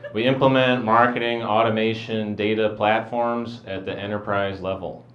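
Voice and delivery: deadpan corporate recital; boring job description. Acted. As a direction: recite dull business jargon without enthusiasm. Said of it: "It's boring as heck".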